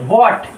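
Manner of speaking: What with lips rounded for the W. Shown as a demonstration. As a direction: round the mouth to begin What. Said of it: "मुंह का pronunciation गोल होना है".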